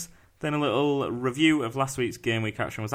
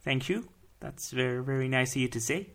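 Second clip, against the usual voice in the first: softly put-on Dutch accent; 6 dB quieter than usual. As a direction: give polite thanks in a mock Dutch accent. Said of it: "That's my Dutch accent".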